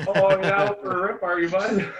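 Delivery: playful Canadian hoser reply, bud; Canadian redneck accent. Retold or imitated. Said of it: "I wanna learn to talk like that".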